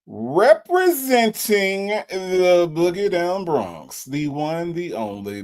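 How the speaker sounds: announcer introduction. Real, not acted. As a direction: stretch out the big introduction, then sink down. Host announces the next guest.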